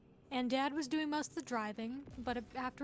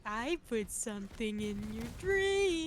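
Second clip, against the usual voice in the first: slow, mock-menacing delivery; 2 semitones lower than usual. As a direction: say it slowly like a veiled threat. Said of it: "genuinely kinda menacing".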